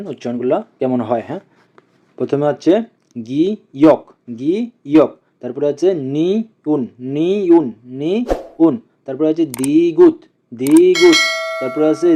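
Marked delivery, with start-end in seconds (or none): 3.3-5.1 গি ইয়ক split into two separate beats; pronunciation drill. Shown as a demonstration. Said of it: "আমরা আবার একসাথে উচ্চারণ করি". 5.9-8.8 নি উন with নি held, then উন; pronunciation drill. Shown as a demonstration. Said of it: "আমরা আবার একসাথে উচ্চারণ করি". 9.4-11.2 দিগুত with a long first syllable; pronunciation drill. Shown as a demonstration. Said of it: "আমরা আবার একসাথে উচ্চারণ করি".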